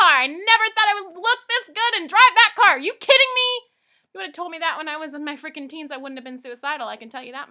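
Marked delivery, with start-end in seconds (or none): 0.0-3.7 much higher and louder, gushing; can't believe her own luck; thrilled disbelief. Real, not acted. Bragging about her dream car, thrilled and loud.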